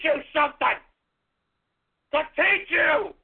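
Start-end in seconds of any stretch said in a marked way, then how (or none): 2.1-3.1 drawn-out angry shout; slow shout. Real, not acted. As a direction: bellow each word slowly. Shouting at other players.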